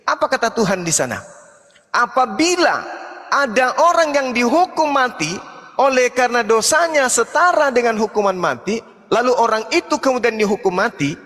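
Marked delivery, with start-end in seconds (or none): 1.9-11.2 scripture recitation. Real, not acted. Declaims a scripture passage.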